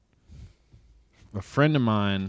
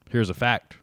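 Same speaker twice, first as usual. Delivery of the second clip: deadpan. Retold or imitated. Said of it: "the delivery was very deadpan".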